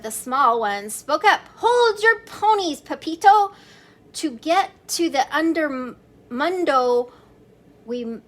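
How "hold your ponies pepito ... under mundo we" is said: high, loud command to stop; commanding chihuahua. Acted. Biggest chihuahua stopping the kitten, loud and high. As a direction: halt the eager kitten firmly. Big dog halts them.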